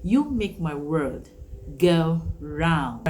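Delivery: said with feeling, not rattled off; slow emphatic. Shown as a demonstration. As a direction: give "You make my world go round" real meaning.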